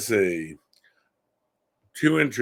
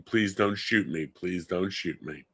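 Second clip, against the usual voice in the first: softer, lower, slowing on the repeat; hushed retold plea; 4 semitones lower, 5 dB quieter than usual. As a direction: pass on the son's scream quietly. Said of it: "in the living room screaming".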